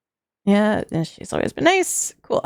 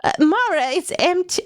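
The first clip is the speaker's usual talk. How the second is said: grandma voice; 4 semitones higher than usual. Acted. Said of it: "I was doing grandma voice".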